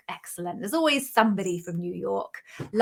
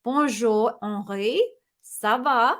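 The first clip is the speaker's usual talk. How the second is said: slower, more careful French accent; second-try French accent; slower than usual. Real, not acted. Host redoing the greeting for the Paris viewer, careful French accent. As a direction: have another go at a French accent. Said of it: "That was terrible ac".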